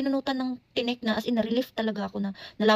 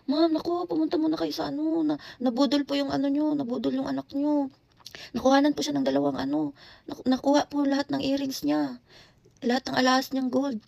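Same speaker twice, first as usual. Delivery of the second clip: alarmed urgent teacher; 4 semitones higher than usual. Retold or imitated. Teacher phoning the mother about the scam, alarmed and urgent. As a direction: rush the bad news to the mom on the phone.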